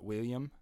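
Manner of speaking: William with the L's gliding into a Y; Scottish pronunciation. Shown as a demonstration. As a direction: say William as wil-yum. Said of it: "Two L's become almost like a Y".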